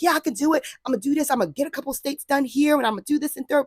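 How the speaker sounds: high-pitched, eager self-hype; rally yourself like a cheerleader; pumped up. Retold or imitated. Imitating herself pumping herself up for thirty states. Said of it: "pumping myself up".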